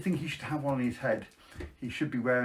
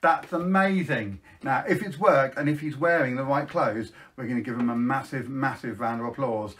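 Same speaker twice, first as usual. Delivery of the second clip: put-on bright, sing-song voice for children; kids party magician. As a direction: hype up the kids at a magic show.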